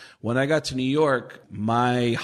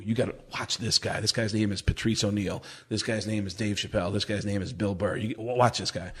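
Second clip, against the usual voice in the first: hushed tip; 4 semitones lower, 5 dB quieter than usual. Retold or imitated. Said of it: "Bert was always cool to let me know".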